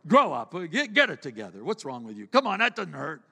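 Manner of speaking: loud impatient scolding, mocking the boy's weakness; harsh scolding dad. Father scolding a faltering child, loud and harsh. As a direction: bark at the child to toughen up. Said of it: "We come down on them and go".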